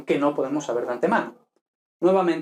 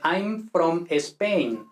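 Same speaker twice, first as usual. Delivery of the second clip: slow Spanish accent, Spain as "Espain"; Spanish-accented English; 2 semitones higher, much slower than usual. Shown as a demonstration. Teacher mimics Spaniards speaking English, Spanish accent. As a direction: add an E before Spain, thick Spanish accent. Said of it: "en inglés no hay una E".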